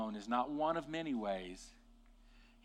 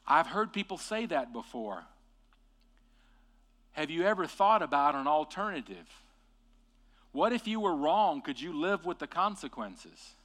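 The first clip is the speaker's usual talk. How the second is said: gentle challenge; 3 semitones higher, 7 dB louder than usual. Shown as a demonstration. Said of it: "when you say".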